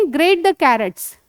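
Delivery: slow, clear, drawn-out English model phrase; slow teaching model. Shown as a demonstration. Teacher slowly modelling phrase for a child. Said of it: "तो उसको क्या बोलते हैं?".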